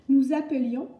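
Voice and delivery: careful demo of "appelions" with "euh"; E as schwa. Shown as a demonstration. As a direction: say "appelions" with an unaccented E, not è. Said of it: "on prononce le E".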